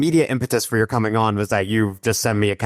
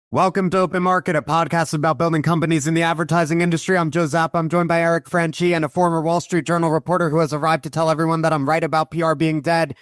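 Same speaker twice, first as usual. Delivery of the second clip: rattled off at auctioneer speed, pitched up; fast auctioneer intro; 6 semitones higher than usual. Real, not acted. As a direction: race through it like an auctioneer. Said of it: "you're like an auctioneer".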